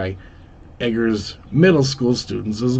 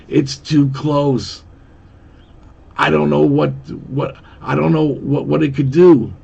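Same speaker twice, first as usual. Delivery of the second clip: higher, stumbling panicked explanation; lightly acted alarm, raised pitch; 4 semitones higher, 4 dB louder than usual. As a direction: fumble for words as the danger nears. Panicked friend near a bomb.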